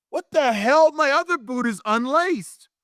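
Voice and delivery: high, loud outburst; acted disbelief. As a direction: stretch it out in appalled astonishment. Retells shock at second boot.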